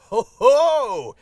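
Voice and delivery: loud booming mystic healer; slow, grand seer's pronouncement; guru voice. Acted. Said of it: "the guru character".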